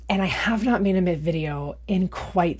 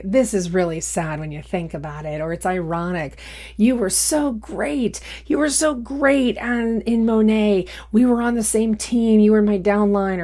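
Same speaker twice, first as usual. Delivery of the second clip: higher, mocking read of a smug man; mocking Jason's comment; 3 semitones higher than usual. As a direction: parrot his smug comment back, higher and sneering. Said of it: "comes up in the comments saying".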